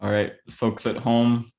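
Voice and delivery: chewing while talking; talking through a mouthful of snack; mouth full. Real, not acted. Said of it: "but I'm chewing".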